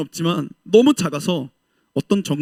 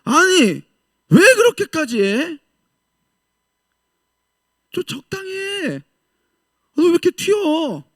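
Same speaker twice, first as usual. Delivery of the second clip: high, sneering mock scolding; mocking ridicule; 10 semitones higher, 3 dB louder, slower than usual. Preacher voicing soldiers mocking a believer, high and scornful. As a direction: needle them like a scornful barracks mate. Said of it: "뭐라고 조롱해요?".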